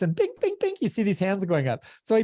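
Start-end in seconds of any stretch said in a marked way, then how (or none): 0.2-0.7 quick high-pitched "bing" sounds; ping out each bing high and light; imitated pinging. Coach showing hands going up on a group call, high pinging.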